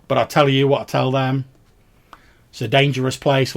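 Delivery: a hint of a ferryman warning customers; plain-spoken ferryman. Game master plays the ferryman.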